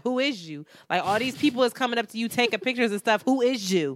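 fast, imitated Philly confrontation; repeated Philly challenge. Girl repeating her question to Fran, brash Philly way. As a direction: rattle it off like a pushy Philly local. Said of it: "the girl repeated herself".

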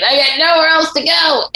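hammed-up Richard Gere pleading; dramatic movie line. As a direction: cry it out like a broken recruit. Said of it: "And he's standing in the rain".

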